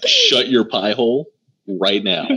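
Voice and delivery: mock angry order; lightly acted mad outburst; Rose Thorn. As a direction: tell them off with a touch of temper. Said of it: "when Rose Thorn got mad".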